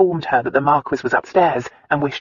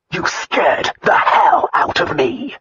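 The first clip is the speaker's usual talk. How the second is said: slow, clipped words; clipped, hard; 4 dB louder, slower than usual. A narrator's reading. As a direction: bite off each word, irritated. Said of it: "Each word was clipped, hard".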